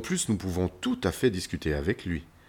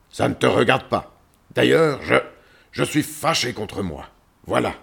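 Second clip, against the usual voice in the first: loud, higher growly outburst, easing off; angry lion; 4 semitones higher, 6 dB louder than usual. Acted. Cornered lion confesses to visitor, angrily. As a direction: burst out angrily, then give in.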